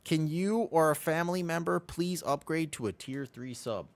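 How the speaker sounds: playful high-pitched begging; mock plea to mom. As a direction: beg Mom in a high whiny voice. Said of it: "I'm like".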